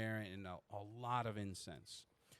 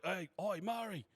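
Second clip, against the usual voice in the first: high, loud call to a colleague inside; doorman's hail; 9 semitones higher, 4 dB louder than usual. Acted. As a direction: holler for someone's attention, pitch climbing. Doorman calls to woman inside.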